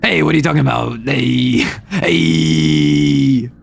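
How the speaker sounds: gravelly Brooklyn wise guy, sinking low on the last hey. Shown as a demonstration. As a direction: put on a rough Brooklyn accent. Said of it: "a bit of a Brooklyn voice".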